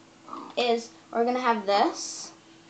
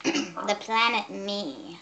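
alien voice; much slower than usual. Shown as a demonstration. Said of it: "let me say this in an alien voice".

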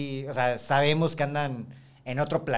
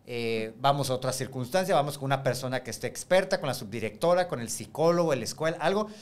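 calming a student. Shown as a demonstration.

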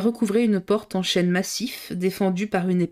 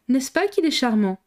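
spontaneous delight; 5 semitones higher than usual. A narrator's reading. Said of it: "avec cette exquise spontanéité".

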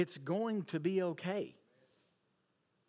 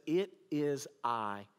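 calm reassurance; 5 semitones lower, slower than usual. Retold or imitated. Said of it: "He says".

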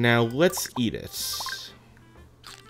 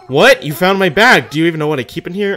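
excited villager voice; 7 semitones higher, 11 dB louder than usual. Acted. Villager thrilled at found bag.

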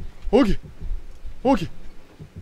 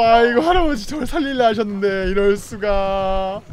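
ordinary delivery

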